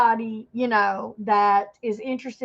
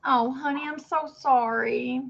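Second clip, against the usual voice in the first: drawn-out, tender sympathy; sympathetic. Real, not acted. Streamer comforting a friend after a panic attack, sympathetic. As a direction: console her gently, stretching out the words.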